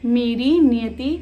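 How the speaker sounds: emphatic verse reading, rather loud; declaimed poem lines; poetry recitation. Shown as a demonstration. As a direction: recite it firmly, pausing between phrases. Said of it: "मैं आपको पढ़ के सुनाती हूँ".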